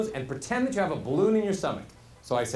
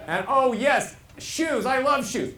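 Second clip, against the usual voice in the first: high, loud, slow gushing; high second pitch; 6 semitones higher, 4 dB louder, slower than usual. Acted. Two-pitch presenter raving about shoes, high pitch. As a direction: jump up to the top note and gush. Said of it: "just on two pitches".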